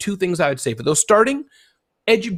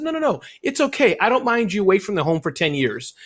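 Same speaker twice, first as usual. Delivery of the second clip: imitated spouse's reassurance; 4 semitones higher than usual. Voicing an understanding spouse.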